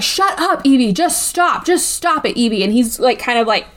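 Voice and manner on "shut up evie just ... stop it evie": mock angry snap.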